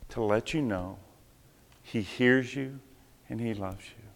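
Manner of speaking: quietly telling Angelica she is loved; tender. Retold or imitated. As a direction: ease each word out gently to comfort her. Gently comforting Angelica.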